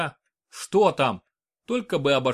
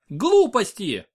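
high, loud protest; almost squeal it out; near shriek; 7 semitones higher, 5 dB louder, much slower than usual. A narrator's reading. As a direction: friend cuts off the dying talk, higher and louder. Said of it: "почти взвизгнула Инесс".

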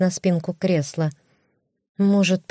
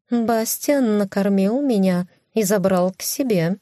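cat voice; 3 semitones higher than usual. Acted. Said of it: "подтвердила Пушинка".

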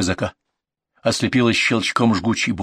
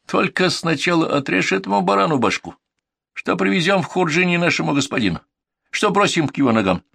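raised, harsh mountain warrior; menacing highlander voice; 8 semitones higher than usual. Acted. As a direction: growl the order like a bandit. Murid speaks, narrator voices him.

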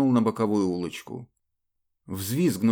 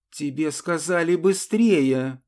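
higher, louder, slow, crushing; withering command; 6 semitones higher, 4 dB louder, slower than usual. Acted. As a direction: flatten him with each word. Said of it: "уничтожающе повторила Анна".

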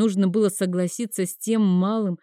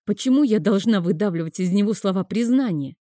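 plain reading voice

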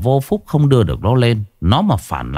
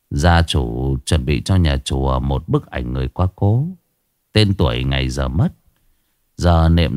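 lower, measured monk's voice; old monk; 5 semitones lower than usual. Acted. Monk advising the daughter-in-law, lower and calm. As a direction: speak as a calm old monk giving advice.

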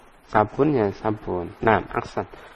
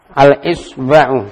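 Al-Isba'u stretched slowly and louder, each syllable clear; teacher's slow clear model of Al-Isba'u; slow model reading; 5 dB louder, much slower than usual. Shown as a demonstration. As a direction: read Al-Isba'u slowly for the students to copy. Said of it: "teacher repeats the model".

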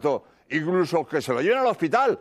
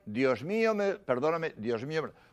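fading prayer; 3 semitones lower, 7 dB quieter than usual. Retold or imitated. Dying victim's prayer fading.

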